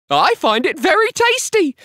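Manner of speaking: very high squeaky wife; Missus Twit. A narrator's reading. Wife answering husband at table, high squeak. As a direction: pipe it out in a high comic voice. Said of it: "Missus Twit said".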